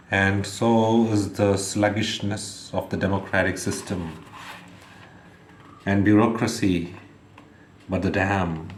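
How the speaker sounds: measured, emphatic poetry reading, phrase by phrase; poem recitation. Acted. Reads their poem aloud.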